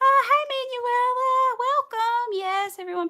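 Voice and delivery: high, loud, drawn-out hello; light up and sing out the welcome; excited greeting. Real, not acted. Streamer greeting a new viewer in chat, excited.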